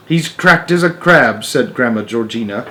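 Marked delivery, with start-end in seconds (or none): 0.1-1.4 put-on old woman voice. A narrator's reading. Georgina voice.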